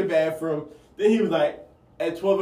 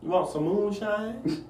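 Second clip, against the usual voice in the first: slow, higher hillbilly offer; hillbilly accent; 5 semitones higher, 6 dB quieter, slower than usual. Shown as a demonstration. Friend offering moonshine in the game, hillbilly drawl. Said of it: "the hillbilly accents".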